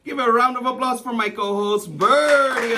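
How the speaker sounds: co-host cheers on the other host's name; applause call. Acted. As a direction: sell the name to the crowd.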